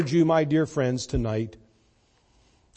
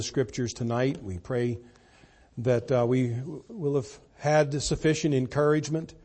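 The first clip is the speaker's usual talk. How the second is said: prayer. Acted. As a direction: speak humbly to God. Closing prayer.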